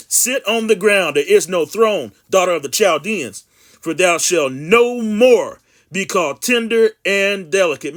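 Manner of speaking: slow, emphatic scripture reading. Acted. Preacher reading Jeremiah to his viewers, slow and emphatic. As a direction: proclaim the verse with long drawn-out words.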